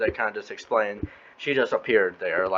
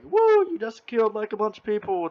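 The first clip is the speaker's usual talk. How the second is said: high mock cheer, turning dry; sarcastic crowd cheer; 11 semitones higher than usual. Crowd mock-cheering the heroes in a high voice. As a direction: cheer them on while noting the body count. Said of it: "they're like".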